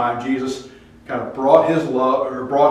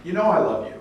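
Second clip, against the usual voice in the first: higher, louder earnest protest; earnest Peter; 8 semitones higher, 7 dB louder, faster than usual. Retold or imitated. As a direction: insist it with feeling. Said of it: "Peter says".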